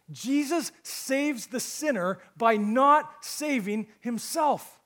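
loud, high, slow proclamation; full-force preaching. Acted. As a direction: drive every word home to the congregation, exultant.

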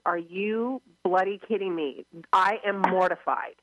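indignant dog. Retold or imitated. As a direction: play the shaved dog, mortified and fed up. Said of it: "he is telling me".

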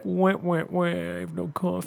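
high fake crying "Wah, wah, wah"; mock whining. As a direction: whimper like a sulky toddler. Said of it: "you're gonna be all like".

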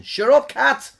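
sudden high, loud yell at a pet; real annoyed shout across the room; shouting at the cat. Real, not acted. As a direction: snap the cat into silence with a shout. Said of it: "There's a cat in this house looking for attention".

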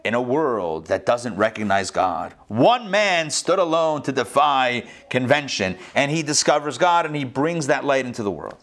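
dramatic movie trailer narrator. Shown as a demonstration. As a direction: announce it like an epic film trailer. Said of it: "I'll cue up my movie trailer voice".

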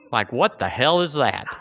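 ordinary talk, nothing marked

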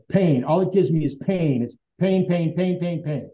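mock angry repeating of pain; angry outburst. Answering his inner guidance in retold anger. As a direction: hammer the word pain, rising then fading. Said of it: "I got angry because I said".

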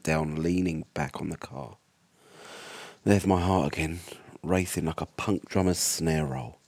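tense first-person horror read; story narration. A narrator's reading. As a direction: narrate it like a survivor's diary.

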